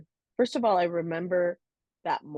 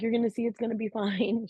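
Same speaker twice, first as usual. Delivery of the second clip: sister's reassurance; 7 semitones higher, faster than usual. Retold or imitated.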